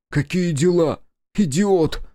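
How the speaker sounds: high, loud furious retort; angry yell. A narrator's reading. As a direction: hurl the insult back. Quarrel, Kiku yells back.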